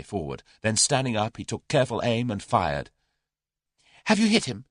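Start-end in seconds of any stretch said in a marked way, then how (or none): 4.1-4.6 high, eager question; eager cry. A narrator's reading. Tuppence asks Julius if he hit the gunman, eager. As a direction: ask it breathless with hope. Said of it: "cried Tuppence eagerly".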